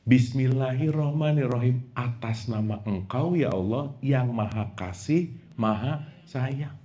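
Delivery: hushed lazy prayer voice; mock prayer. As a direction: murmur it like a thoughtless prayer. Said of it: "kalimat satu aja".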